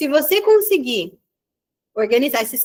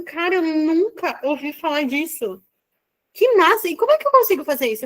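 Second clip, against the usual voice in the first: amazed client; 3 semitones higher than usual. Retold or imitated.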